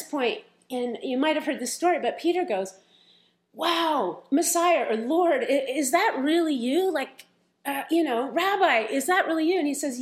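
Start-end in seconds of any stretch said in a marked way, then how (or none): 3.5-9.6 amazed disbelief. Retold or imitated. Peter amazed at Jesus.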